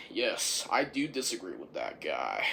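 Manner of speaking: very low, soft monotone; deadpan confirmation. Real, not acted. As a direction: drop right down to confirm it quietly. Firmly repeats the disagreement.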